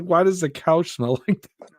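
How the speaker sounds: high-pitched imitation of mom; mock complaining mother. Voicing the mother's complaint in story.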